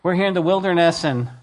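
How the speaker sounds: a touch of a whining crowd; mock complaining Israelite. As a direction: play the grumbler, half-hearted. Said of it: "you would think".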